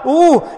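high, loud "oh" of anguish; imitated loud cry. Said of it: "he screamed more, cried more".

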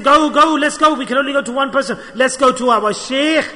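rally a friend to set off at once; urgent urging. Retold or imitated. Companion urges going to the sheikh.

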